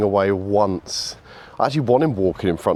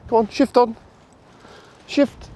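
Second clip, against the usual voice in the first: barking commands; 13 semitones higher than usual. Real, not acted. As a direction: keep barking it out until the dog moves. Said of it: "as I'm barking verbals".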